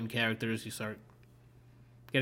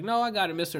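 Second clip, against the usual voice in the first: lightly voiced stranger, raised and a bit louder; gruff stranger; 8 semitones higher, 4 dB louder, faster than usual. A stranger waving off help from a passing rider, lightly voiced. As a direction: brush off the offer like a proud cowboy.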